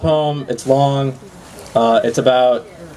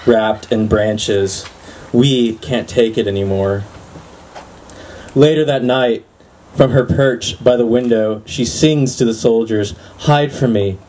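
measured recital with weighted line breaks; poetry reading. Acted. Poet reads to a live audience, measured poetry reading. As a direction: let each image land, pausing between phrases.

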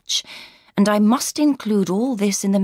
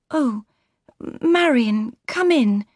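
put-on higher, gentle young woman's voice; Laura's voice; 5 semitones higher, slower than usual. A narrator's reading. Laura greeting her sister warmly, higher voice. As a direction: lift into the young bride's voice.

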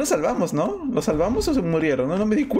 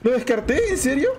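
high questions ending in a drawn-out whine; incredulous dismay; 6 semitones higher, slower than usual. Real, not acted. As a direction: stretch the last words slowly in disbelief. Dismayed over discarded healing item.

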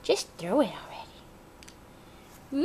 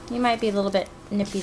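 gentle warning. Real, not acted. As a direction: warn the bird kindly but firmly. Scolding nippy bird gently.

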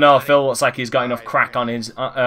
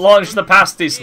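hammed-up rallying shout, a bit louder; mock battle cry; 4 semitones higher, 6 dB louder than usual. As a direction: bellow it like a general sending troops. Joining mock war cry.

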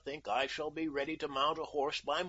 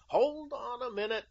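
sharply raised pitch on an admonishment; admonishing; 11 semitones higher than usual. A narrator's reading. American halting the king as he rises, admonishing. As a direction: cut in to check him, pitched high. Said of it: "admonished the American".

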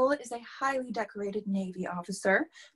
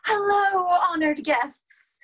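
higher, louder, slow stately welcome; formal greeting; 8 semitones higher, 7 dB louder, slower than usual. Acted. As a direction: try it grand and slow. Second try at speech opening.

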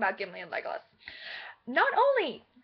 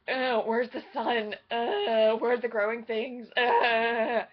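mock-miserable elvish whining; slow, disgusted whine with long ughs; whining elves; 4 semitones lower, slower than usual. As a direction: groan and moan between complaints. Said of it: "they're just like".

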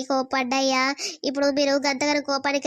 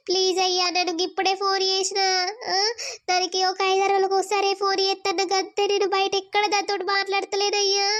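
a little higher, voice catching with tears; tearful pleading; 3 semitones higher than usual. Acted. Wife begging her angry husband, tearful and pleading. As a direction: plead through rising tears.

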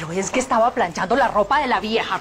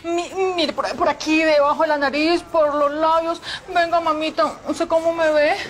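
talking with a numb, paralyzed face; stiff face; 4 semitones higher than usual. Real, not acted. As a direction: lips barely moving. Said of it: "se me paralizó la cara".

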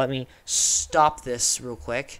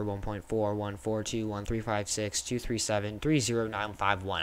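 flat, even robot voice; 4 semitones lower, 6 dB quieter than usual. Real, not acted. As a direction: read the digits like a robot. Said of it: "I sound like a robot".

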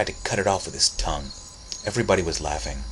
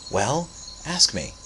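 sly tease; 5 semitones higher, slower than usual. Acted. Sly Cece teasing.

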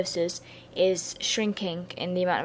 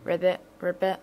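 mock frog croak; frog impression. Lecturer joking about their failing voice, playful frog croak. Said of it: "if I sound like a frog".

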